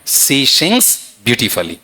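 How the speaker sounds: "she sings beautifully" slow, each sound drawn out; pronunciation demo. Shown as a demonstration. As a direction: let them hear every sound in "she sings beautifully". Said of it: "sound सुन लेते हैं मेरा". (धीरे-धीरे उच्चारण का नमूना)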